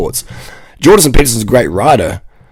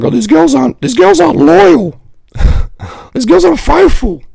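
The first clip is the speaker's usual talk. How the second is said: much higher, whiny mock lament; whiny guy complaint; 3 dB louder than usual. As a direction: whine it like a sulky dude. Guys complaining about girls.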